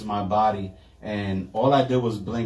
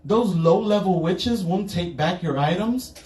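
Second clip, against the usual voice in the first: shop witch; 8 semitones higher than usual. Retold or imitated. Witch shop owner voiced.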